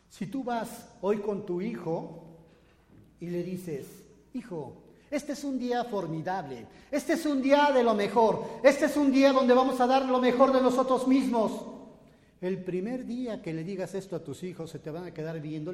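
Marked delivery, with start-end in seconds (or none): 4.3-11.7 rising to a loud, fired-up cheer; mock motivational father building to a shout; enthusiastic pep talk. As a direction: pump up your kid, louder and louder.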